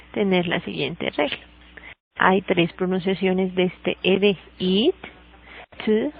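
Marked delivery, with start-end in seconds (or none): 4.6-5.0 "eat" as a short, isolated id sound; crisp standalone "eat", a short vowel closed by a d. Shown as a demonstration. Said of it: "it, el sonido de". 5.9-6.1 "to" as a bare t sound; "to" said as a lone t, hardly any vowel; isolated T sound. Shown as a demonstration. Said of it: "el sonido de la T".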